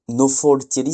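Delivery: "Nofoltiri" with round o sounds, no-fol-ti-ri; odd variant. Shown as a demonstration. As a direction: try out the strange form "Nofoltiri". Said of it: "c'est un peu bizarre à dire". (« Nofoltiri » avec des o ronds, no-fol-ti-ri)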